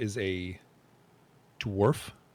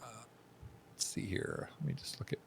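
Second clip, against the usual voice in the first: whisper to self; 12 dB quieter, slower than usual. Real, not acted. GM whispers while checking prices.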